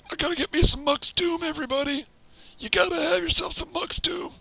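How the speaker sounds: put-on raspy old geezer rambling; old man voice. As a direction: play a grumpy old man. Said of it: "trying to keep the old man voice".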